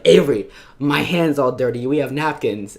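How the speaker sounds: whiny complaint. Retold or imitated. Whining to Avery about messy hand.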